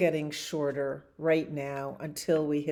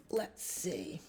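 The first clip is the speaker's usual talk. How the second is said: soft whisper while searching; host hunting for the next book; whispered to self; 8 dB quieter than usual. Real, not acted. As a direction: whisper it to yourself, looking around. Muttering while finding book.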